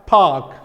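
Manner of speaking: "park" with no R sound, just a long vowel; non-rhotic. Shown as a demonstration. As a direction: drop the R in "park". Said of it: "here in non-rhotic accent".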